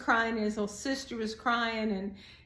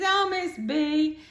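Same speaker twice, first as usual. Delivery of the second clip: grinning reply; 6 semitones higher, 5 dB louder, slower than usual. Retold or imitated. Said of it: "And he's grinning".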